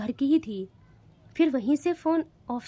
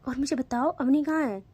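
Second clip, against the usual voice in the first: lovingly. Acted. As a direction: soothe a frightened friend. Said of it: "बहुत प्यार से कहती है".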